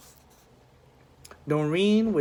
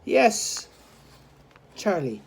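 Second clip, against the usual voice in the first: Missus O'Neill; 8 semitones higher than usual. A narrator's reading. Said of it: "said Missus O'Neill".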